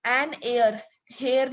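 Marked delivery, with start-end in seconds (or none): 1.1-1.5 हेयर with an audible h, like "hair"; sounded h. Shown as a demonstration. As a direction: pronounce the h at the start of हेयर. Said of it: "नहीं बोलते इसको".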